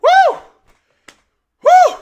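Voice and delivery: short, very high, loud whoops; celebratory whoops. Real, not acted. Fan cooling off after tying the game, excited whooping. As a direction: let out sharp whoops of excitement.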